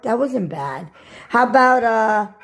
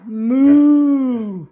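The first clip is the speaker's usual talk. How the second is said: mock cow moo. Shown as a demonstration. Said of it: "Can you do a moo cow?".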